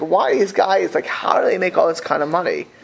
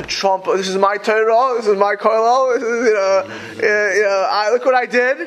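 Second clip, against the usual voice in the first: Donald Trump; 4 semitones higher than usual. Retold or imitated. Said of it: "You can imagine Donald Trump".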